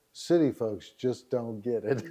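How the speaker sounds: lightly voiced slow announcer; understated, measured tagline read; commercial announcer. Announcer closing a dating commercial, slow tagline. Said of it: "And the announcer goes".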